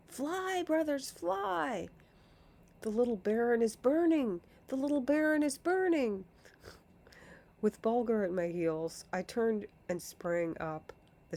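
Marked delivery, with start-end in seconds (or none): 0.1-6.2 high panicked shrieks; shrieking. Acted. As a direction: scream it out as they flee in terror. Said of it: "they could only tear along and cr-, cry".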